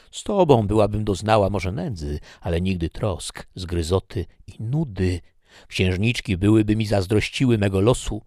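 put-on wistful young woman pining for her rags; lightly voiced Laura, lamenting. Laura mourns her old life to Ricardi, mildly plaintive.

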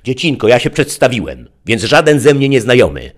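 high, crafty coaxing; slyly. A narrator's reading. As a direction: outwit the child with a smile. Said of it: "zauważył przebiegle". (przebiegle, wysokim głosem)

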